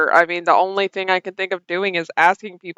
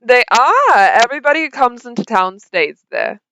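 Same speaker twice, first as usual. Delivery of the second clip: lightly voiced townsperson, pitched up at first; friendly local; 4 semitones higher than usual. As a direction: answer as an eager local. Game master voices a local.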